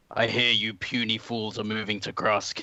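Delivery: gruff, rumbling, grunting voice. Voicing a character heard from the side while the party mounts up: gruff rumbling voice. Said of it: "a low rumbling, uh, sort of throat clear, like a grunt".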